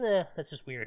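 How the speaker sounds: ordinary delivery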